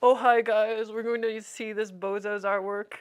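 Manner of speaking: lightly imitated YouTuber intro; mock video greeting with a loud opening; a hint of a streamer impression; Moist Critical. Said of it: "I'll mimic Moist Critical's voice".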